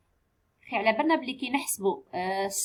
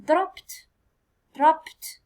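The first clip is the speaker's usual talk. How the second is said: dropped said loud and higher; loud model word; 4 semitones higher, 4 dB louder than usual. Shown as a demonstration. Teacher counting syllables for pupils, loud dropped. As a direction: call out dropped clearly. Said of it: "teacher models the word".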